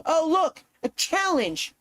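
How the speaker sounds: high, goofy dimwit voice; dumb guy voice. Retold or imitated. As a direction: play the idiot who sees a dare. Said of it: "they go".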